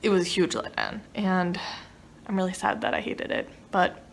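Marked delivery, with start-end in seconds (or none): 2.3-4.0 quiet rueful admission; soften, almost sad. Real, not acted. Soft before punchline.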